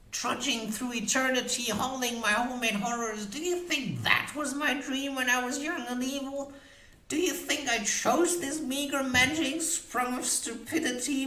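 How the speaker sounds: high, bitter crone rant; bitter witch voice. A narrator's reading. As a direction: rage at her own fate.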